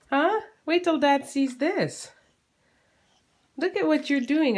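high, playful mock scolding. Real, not acted. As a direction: tease her like she's in trouble. Mom teasing baby in crib.

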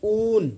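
ऊन with a long oo; ऊन held long on the oo; drawn out. Shown as a demonstration. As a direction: stretch ऊन on its vowel. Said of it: "थोड़ा खींच के बोल रहे हैं".

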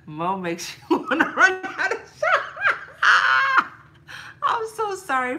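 high, loud, helpless laughter through the words; cackling so hard she can barely apologize; laughing. Real, not acted. Laughing at herself while apologizing to her viewers.

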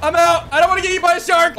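high, urgent fright; scared. Real, not acted. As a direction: bail out in a fluster. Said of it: "I'm scared, guys".

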